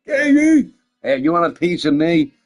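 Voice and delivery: loud rowdy challenge; belligerent drunk. Pretend. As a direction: pick a drunken fight.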